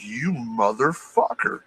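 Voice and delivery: slow, stretched-out curse; retold stunned outrage. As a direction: re-enact the curse slowly, drawing out each word. Retold shock on looking down.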